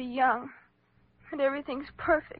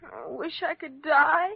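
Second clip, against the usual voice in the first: slow, louder cry of despair; 4 semitones higher, 5 dB louder, slower than usual. Acted. Girl to her doctor, slow despairing outburst. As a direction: let the wish to die spill out slowly.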